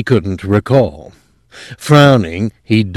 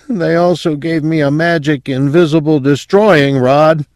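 lightly voiced sedated patient, pitched high; high voice with a hint of daze; drugged mumble; 8 semitones higher, 3 dB louder than usual. A narrator's reading. Drugged patient confesses to a weapon, lightly dazed and high. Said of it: "Quayle mumbled".

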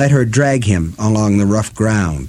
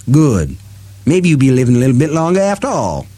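mocking Detta voice; 4 semitones higher than usual.

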